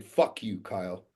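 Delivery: mock yell an insult at someone; imitated yelling. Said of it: "yells in my face".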